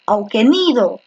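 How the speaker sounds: auquénido wrongly stressed as au-que-NÍ-do; auquénido with the weight on the second-last syllable; stress shifted to NI. Shown as a demonstration. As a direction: lean on NI in auquénido. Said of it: "la fuerza de voz está en la antepenúltima".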